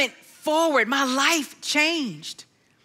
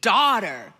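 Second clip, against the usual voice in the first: tender calling; 6 semitones lower than usual. Retold or imitated. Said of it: "I heard Jesus say to me".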